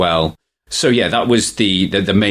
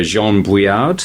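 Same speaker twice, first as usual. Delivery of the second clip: slow, attempted French pronunciation; French accent; 2 semitones higher, slower than usual. Shown as a demonstration. Host naming a French author, in his best French accent. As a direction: put a light French accent on the name. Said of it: "my best French impression".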